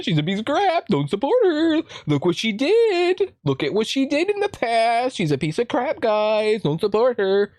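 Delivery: rally the mob in a shrieky parody voice; mocking Twitter accuser.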